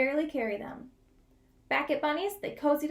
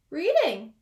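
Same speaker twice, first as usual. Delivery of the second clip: a touch louder, simple answer; Bunny voice; 3 semitones higher, 6 dB louder than usual. Acted. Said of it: "said Bunny".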